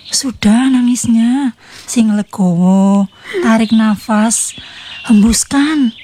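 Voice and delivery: slow, drawn-out calming instructions; soothing coaching. Acted. Neighbor coaching crying friend to breathe, slow and soothing. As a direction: talk them down slowly, breath by breath.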